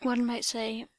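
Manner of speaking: slow, breathy seductive whisper. Acted. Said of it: "Slowly and seductively".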